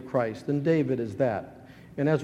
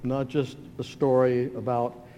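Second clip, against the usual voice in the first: public prayer; 2 semitones lower than usual. Real, not acted. Pastor praying to the Father for the congregation, measured prayer.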